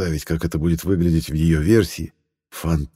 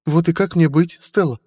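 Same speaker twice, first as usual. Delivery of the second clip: put-on higher, pleading older woman; mother's voice; 11 semitones higher, 3 dB louder than usual. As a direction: coax him like a worried mother. Mother asks Stella.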